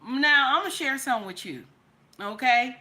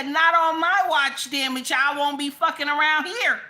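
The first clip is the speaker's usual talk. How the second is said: louder, higher indignant quote; mock presidential declaration; 3 semitones higher, 4 dB louder than usual. Quoting Trump's supposed warning to viewers, mock-indignant. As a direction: build into an emphatic mock warning. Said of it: "He said".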